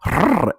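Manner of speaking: playful big-cat trill; flirty growl. Retold or imitated. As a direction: roll out a mock predatory "rrr". Imitates the woman's growl at him.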